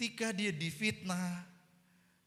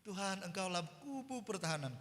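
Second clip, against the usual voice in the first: soft, meek call to God; subdued prayer; 4 semitones higher, 6 dB quieter than usual. Shown as a demonstration. Preacher demonstrating a weak way of calling out, subdued. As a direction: pray it small and quietly. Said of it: "Orang berseru bagaimana sih?".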